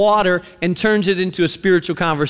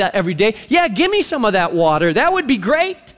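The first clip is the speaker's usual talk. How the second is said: mock-eager agreement, lightly sarcastic. Samaritan woman humoring Jesus about living water, lightly sarcastic. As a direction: play along as if humoring him. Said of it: "There's sarcasm in, in her tone".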